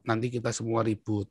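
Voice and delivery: soft fatherly caution; father's calm advice. Retold or imitated. Father cautioning his bullied child, soft and calm. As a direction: quietly voice a father's warning. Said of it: "ayah saya selalu bilang apa?".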